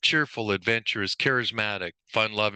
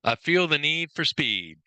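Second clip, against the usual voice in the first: slow, higher-pitched movie catchphrase; Maverick; 4 semitones higher than usual. Acted. Trainer quoting the pilot's movie line, lightly acted. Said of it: "The line from the movie".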